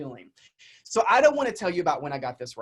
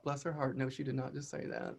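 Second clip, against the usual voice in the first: inner sarcastic thought; 4 semitones lower, 11 dB quieter than usual. Retold or imitated. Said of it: "you all know I thought".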